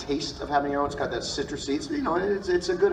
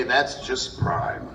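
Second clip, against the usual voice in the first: Beast Wars voice; much slower than usual. Acted. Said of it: "In my Beast Wars voices, all at the same time".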